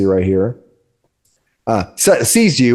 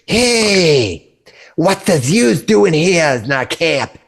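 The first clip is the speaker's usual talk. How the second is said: high, pushy kobold challenge; squeaky little guard demanding answers; suspicious kobold; 7 semitones higher, slower than usual. Acted. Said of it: "and he says".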